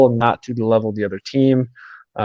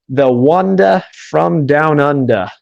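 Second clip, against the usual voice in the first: slow, hammed-up bad Australian accent; lightly put-on Australian twang, drawn out slowly; 2 semitones higher, slower than usual. Shown as a demonstration. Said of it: "terrible, um, Australian accent there".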